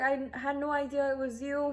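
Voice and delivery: high, sugary put-on voice of the officer; sweet-talking officer. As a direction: play the officer turning suddenly sweet and apologetic. Officer apologizing.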